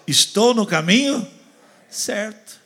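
high, loud cry of relief; mock joyful discovery; excited relief. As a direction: sound thrilled to be on track. Joyful arrival quote in sermon.

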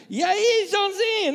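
high, loud, teasing hello; a cheeky hey to a childhood friend; 1 teasing buddy greeting. Retold or imitated. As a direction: call out to an old pal, mockingly. Mocking friend calls pastor by nickname.

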